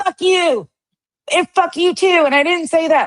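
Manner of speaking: very high, shrieking, screaming outburst. Trying to be like Queen for once, the speaker is mock-screaming like Queen. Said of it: "just start screaming at everybody".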